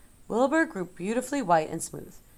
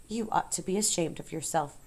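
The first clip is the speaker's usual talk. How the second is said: disgust; 4 dB quieter than usual. Acted. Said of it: "said Charlotte in disgust".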